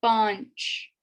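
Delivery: "bunch", the n faint; Urdu number five. Shown as a demonstration. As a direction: model "bunch" slowly and clearly. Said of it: "then we have bunch".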